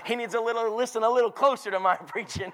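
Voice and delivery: amused, chuckling through the words; wry laugh at his own expense. Retold or imitated. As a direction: let laughter break into the line. Laughs at son's mistake.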